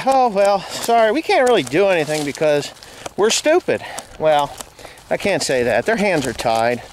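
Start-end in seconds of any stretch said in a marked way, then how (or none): 0.0-3.9 a light mocking cop voice, a bit higher; mocking the police. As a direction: parody the officer's lame excuse. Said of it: "they're gonna say".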